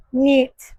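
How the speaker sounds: Нет said as Russian "nyet"; Нет по-русски. Shown as a demonstration. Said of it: "Let me say it in Russian".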